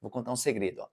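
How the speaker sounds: "Vou contar um segredo" low and hushed; secretive hush, then pause. Shown as a demonstration. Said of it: "te dar um exemplo disso".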